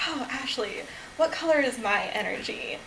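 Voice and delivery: softly quoting herself; retold own question. Speaker asking Ashley her energy color, lightly retold. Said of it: "And I was like".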